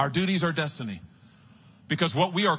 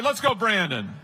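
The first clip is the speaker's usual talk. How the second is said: joking; 4 semitones higher than usual. Shown as a demonstration. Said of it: "No, I'm just kidding".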